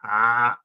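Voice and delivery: long open "Ah" like a crow; crow-like vowel. Shown as a demonstration. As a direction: draw out "Ah" like a caw. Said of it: "like a crow".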